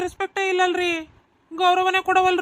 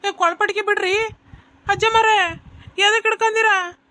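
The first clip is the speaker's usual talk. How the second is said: pained cry; 3 semitones higher than usual. Acted. Waiter's collar grabbed, calling out.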